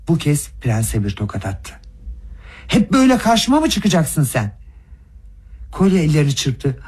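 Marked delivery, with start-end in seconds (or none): 2.7-4.6 raised, higher enraged yell; shouting in a mad fury; furious shout. A narrator's reading. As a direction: hurl it at the prince in blind rage. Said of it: "çılgın bir öfke içinde kudurmuş gibi bağırarak".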